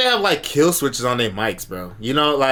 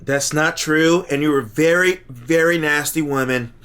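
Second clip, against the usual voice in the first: Trump impression. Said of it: "Trump would have been like".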